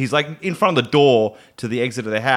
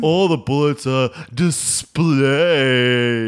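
butler voice; 3 semitones higher, much slower than usual. Retold or imitated. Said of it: "he was like".

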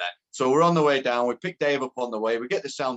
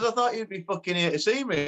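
lightly voiced caller, higher pitch; mock complaint in a raised phone voice; Jimmy Bullard; 5 semitones higher than usual. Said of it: "this voice on phone".

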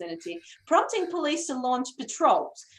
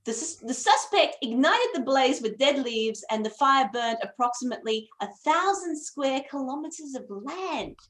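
news announcer voice. Acted. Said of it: "do my best news announcer voice".

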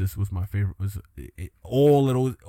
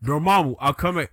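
lightly acted hood Doctor Strange; a hint of a hood callout; 3 semitones higher, 4 dB louder than usual. Doctor Strange returning to Dormammu, lightly acted hood voice. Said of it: "let's give them hood voices".

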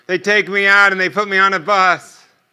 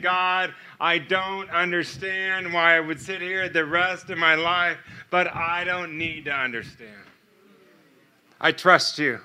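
retold prayer, much quieter and measured; hushed surrendering prayer; 8 dB quieter than usual. Man giving up his last bit of control to God, hushed prayer. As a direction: pray softly, yielding control.

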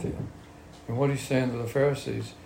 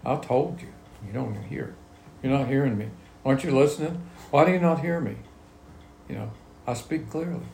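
raised, pressing mock exasperation; Jesus, exasperated; 3 semitones higher than usual. Jesus challenging the Pharisees for not listening, exasperated. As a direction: press each question harder, pitch climbing. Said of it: "that's the same thing Jesus said to the Pharisees".

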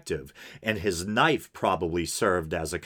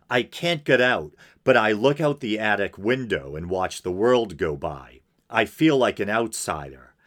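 deliberate, emphatic reading aloud; dramatic letter reading. Acted. Podcaster reading a killer's letter to listeners, dramatic reading. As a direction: read it out as a formal statement.

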